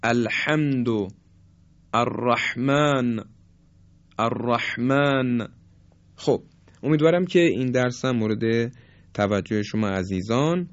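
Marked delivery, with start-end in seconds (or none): 0.0-5.5 الرحمن slow, with a husky, constricted ح. Shown as a demonstration. Teacher demonstrating the husky ح. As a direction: squeeze the ح of الرحمن in the throat. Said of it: "اما حرف حا مثل".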